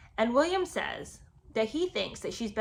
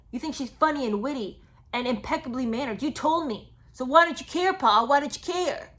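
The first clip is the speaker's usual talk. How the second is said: mock pleading rant; 3 semitones higher, 6 dB louder than usual. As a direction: ham up the wounded son begging his father. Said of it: "he tells Pa".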